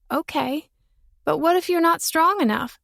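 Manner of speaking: put-on tearful thanks to the boy; relieved little girl.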